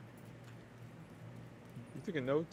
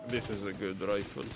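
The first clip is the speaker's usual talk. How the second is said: put-on shitty Russian accent. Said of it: "speaking with shitty Russian accent".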